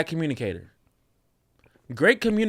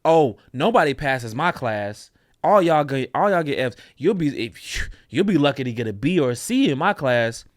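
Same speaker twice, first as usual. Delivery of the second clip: smug teacher. Retold or imitated. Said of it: "It's like a teacher".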